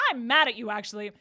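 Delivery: loud posturing that jumps high; hammed-up loud, eager demand; mock angry outburst. Acting out character's posturing outburst.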